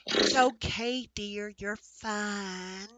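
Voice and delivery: slow, soothing, placating; calm the horse down, very slowly; slow hushed placating voice. Acted. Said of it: "placating kind of motion".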